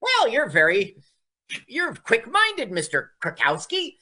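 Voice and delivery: lightly voiced seductive realtor; flirty realtor. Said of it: "And she goes".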